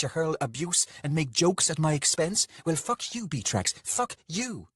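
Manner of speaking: high, loud, furious woman's tirade; angry lover. Acted. Lover rows with Beatrix in front of the tavern, furious. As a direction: lash out in a high, outraged voice.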